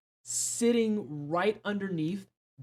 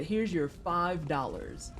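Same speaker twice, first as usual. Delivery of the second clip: mock generous; 3 dB quieter, slower than usual.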